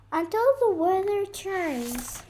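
high, fast, cheery bird chatter; chirping bird. Acted. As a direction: rattle it off brightly as the bird. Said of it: "chirped the bird".

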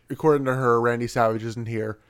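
usual speaking voice

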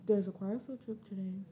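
quiet, fast mumble; said too softly and fast; mumbled quickly. Real, not acted. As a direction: rush it under your breath. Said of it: "are you gonna say that a little louder?".

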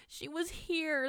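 put-on high, slow wail of a frightened child; acted sobbing. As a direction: wail it like a tearful little girl. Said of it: "the girl sobbed".

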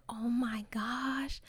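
slow hushed whisper; nervous whisper. Retold or imitated. Seeing her crush's parents at graduation, a slow nervous whisper. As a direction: breathe it out, panicking quietly.

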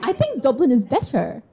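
attempted Irish accent. Shown as a demonstration. Practising for a friend, shaky attempt at Irish accent. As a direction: try out a Dublin-style Irish accent. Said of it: "do my own Irish accent".

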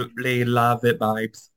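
understated put-on British; mock British accent. Showing British expressions, mock British accent. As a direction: slip lightly into fake British. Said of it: "talking like I'm British".

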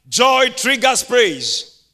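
very slow, spaced words; slow declaration; slow emphatic. Real, not acted. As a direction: give each word weight. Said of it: "sermon point announced".

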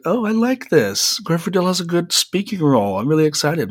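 high, thrilled gush of delight; excited. Retold or imitated. Young actor thrilled after watching the movie, excited. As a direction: squeal it like a kid who just got great news. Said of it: "And I was so excited".

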